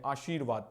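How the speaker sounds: "आशीर्वाद" as "aasheervaad", r before vaad; correct pronunciation repeated. Shown as a demonstration. Teacher joins the syllables up, "आशीर्वाद" as "aasheervaad". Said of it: "ऊपर फिर रा पढ़ेंगे".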